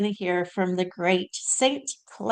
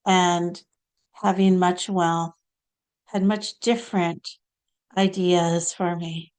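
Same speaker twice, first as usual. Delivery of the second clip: lightly voiced saint, short phrases with long pauses; Saint Clare. Channelled saint telling listeners about her early life, measured and halting. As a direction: recount it deliberately as a channelled saint. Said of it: "now we're gonna hear from Saint Clare".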